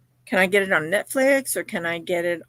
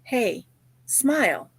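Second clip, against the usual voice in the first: cheery call to smile; 4 semitones higher, slower than usual. Retold or imitated. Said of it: "I'll say something like".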